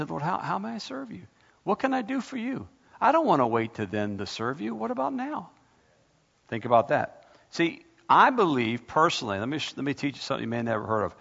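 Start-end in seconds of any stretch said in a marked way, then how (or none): 0.0-5.5 eager prayer. Shown as a demonstration. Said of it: "turn that around and say".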